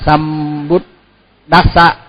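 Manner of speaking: "Sambuddhassa" with the H dropped from "dha"; mất chữ H. Shown as a demonstration. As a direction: slowly say "Sambuddhassa" as "Sambud-dassa", without the H. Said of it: "mất chữ H". (đọc "Sambuddhassa" chậm, mất âm H)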